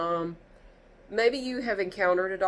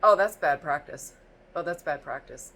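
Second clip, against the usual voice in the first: condescending doctor; 4 semitones lower than usual. Retold or imitated. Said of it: "she leans her head back, and she just goes".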